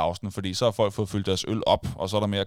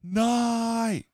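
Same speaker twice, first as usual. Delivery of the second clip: high mock cry of dismay; retold cry; 12 semitones higher than usual. Fan in the crowd crying out, mock dismay. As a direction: yell no like a stunned fan. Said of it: "der er en, der råber".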